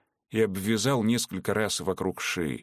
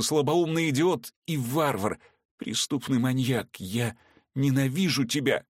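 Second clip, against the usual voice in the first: higher, raging hatred; furious outburst; 4 semitones higher than usual. Acted. Veronika hurling hatred at Vorski, higher raging voice. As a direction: spit out her loathing. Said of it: "Весь гнев и омерзение ... вырвались наружу".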